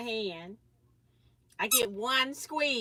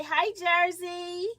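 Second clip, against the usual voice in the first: put-on baby talk; 7 semitones higher, 5 dB louder, much slower than usual. Voicing greeting for baby.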